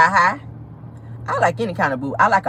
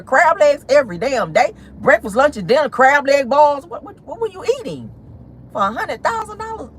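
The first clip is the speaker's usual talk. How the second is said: acted-out outrage, climbing much higher; higher, exasperated disbelief at the absurdity; incredulous outburst; 6 semitones higher than usual. Host grilling the absent son over Uber Eats, incredulous. Acting out outraged reaction to spending.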